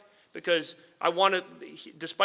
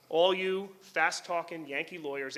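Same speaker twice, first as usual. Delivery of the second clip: slow, scornful quote of a Texas prosecutor; dismissive DA; slower than usual. Retold or imitated. Prosecutor dismissing the Yankee lawyer, with slow scorn. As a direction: brush him off with contempt, slowly. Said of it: "here's what they said. This, literally".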